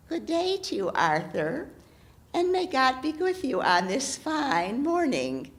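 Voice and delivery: lightly voiced old hag, sweetly sly; a hint of a crone greeting the king. Hag character voice.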